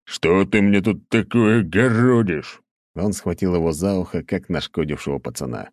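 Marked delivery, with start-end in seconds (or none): 0.1-2.6 loud, slow stern growl; gruff scolding. A narrator's reading. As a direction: cut off his excuses. Tolstoy scolding the count. (грозно и медленно, громче)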